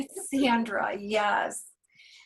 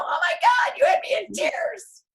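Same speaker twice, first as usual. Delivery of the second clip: emotional exclamation; 11 semitones higher than usual. Real, not acted. Moved praise for Tony.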